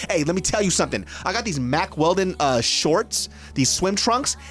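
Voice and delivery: casual, lively sponsor pitch; podcast ad read. Real, not acted. Host pitching clothes to listeners, ad read. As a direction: sell it like a chatty host.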